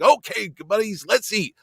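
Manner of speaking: chipper night owl. Retold or imitated. Same guest calling friends to eat.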